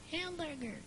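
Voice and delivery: canyon echo. Shown as a demonstration. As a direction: echo it back from far away. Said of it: "my impersonation of an echo".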